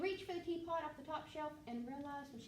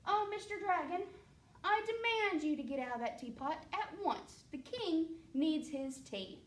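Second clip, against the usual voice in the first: commanding queen; 4 semitones higher than usual. Acted. Queen demands dragon leave.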